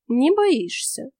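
thoughtful. Acted. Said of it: "задумчиво констатировала она".

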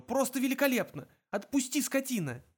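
very high, strangled protest; indignant, high-pitched choking outburst; choked rasp. A narrator's reading. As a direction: squeeze it out from a gripped throat. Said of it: "хрипел Артур".

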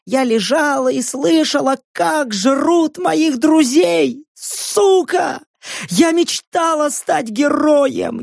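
high, strange, mechanical telling; hollow mechanical voice. A narrator's reading. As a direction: recite the horror like a broken machine. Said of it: "глухо и странно механически". (глухо и механически)

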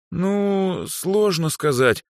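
shy embarrassed hesitation. A narrator's reading. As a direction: squirm as she answers. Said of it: "смутилась ещё больше Дроу".

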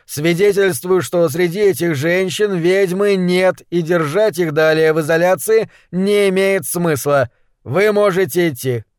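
formal, precisely articulated ruling; crisply enunciated. A narrator's reading. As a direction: deliver the verdict with authority. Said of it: "отчеканил Харп".

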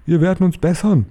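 high, meek chorus voice; murmured promise. A narrator's reading. Cowed witches promising to improve, high meek murmur. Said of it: "murmelte das Publikum".

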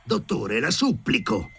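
high choked plea; high-pitched frightened begging; desperate pleading. A narrator's reading. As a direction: beg while held by the throat. Strangled Sharikov begs the doctor.

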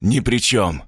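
a touch of calm coldness; villain coolly dismisses the students. A narrator's reading. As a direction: answer flatly, unbothered. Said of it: "спокойно ответил тот".

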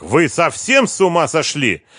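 high, loud, indignant scolding; angry rebuke. A narrator's reading. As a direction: accuse him of theft, raging. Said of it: "гневно заявил".

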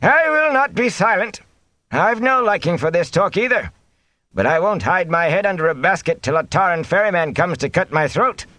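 high-pitched, defiant protest. A narrator's reading. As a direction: refuse to be silenced, demand answers. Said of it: "and raised his voice".

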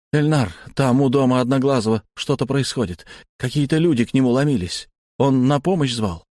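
rattling off fast. Acted. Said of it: "протараторил я".

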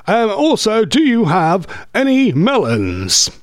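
lightly voiced radio announcer with swooping emphasis; a touch of grand broadcaster delivery; radio-voice impression. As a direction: play a radio voice ordering at the counter. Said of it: "could you imagine them going to the post office".

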